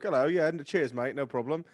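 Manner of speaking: light imitation of a British student's accent; a hint of a cheerful British bloke. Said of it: "British student bloke".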